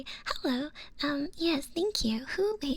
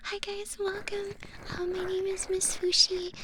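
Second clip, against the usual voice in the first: excited greeting; 6 semitones higher than usual. Real, not acted. Introduces herself to raiders.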